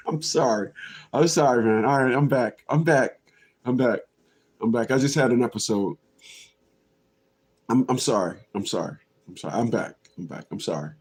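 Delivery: low, soft, repeated mumbled apologies; sheepish apology. Pretend. Apologizing after having an episode, low and sheepish. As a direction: come down quietly after an outburst.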